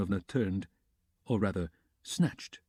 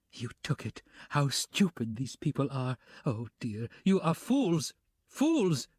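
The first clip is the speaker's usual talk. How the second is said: scornful cry building to high fools; cried; 3 semitones higher than usual. Acted. Katerina scorning the whole room, high cry. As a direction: contempt rising to a high shout. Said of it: "she cried".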